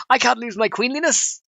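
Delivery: mock queenly cry. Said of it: "Mills is like".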